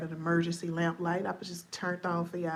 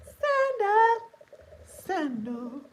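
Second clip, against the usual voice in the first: hype shout; 12 semitones higher, 5 dB louder, much slower than usual. Acted. Hype call to audience.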